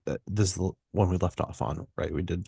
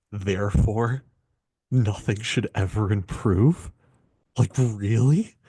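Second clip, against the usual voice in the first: mock incredulity; 2 semitones higher, 6 dB louder, slower than usual. Host retelling his childhood answer to "if it ain't broke", mock incredulous. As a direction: retort in louder, rising disbelief. Mocking a saying hated as kid.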